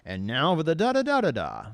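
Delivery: loud presenter build, pitch swooping high; hammed-up TV host opener; Jeremy Clarkson. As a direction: announce it big, stretching the rise. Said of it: "Jeremy Clarkson on Top Gear always starts".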